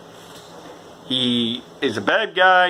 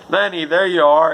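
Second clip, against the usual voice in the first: put-on drunk greeting; 4 semitones higher, 4 dB louder than usual. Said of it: "and he's like".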